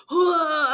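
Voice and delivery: imitated sick noise. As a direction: imitate someone coughing and sounding ill. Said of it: "like, coughing and, like".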